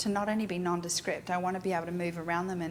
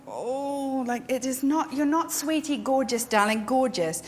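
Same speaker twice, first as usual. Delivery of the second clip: gushing fake praise; 4 semitones higher, 3 dB louder than usual. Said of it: "I'm not gonna sit there and go".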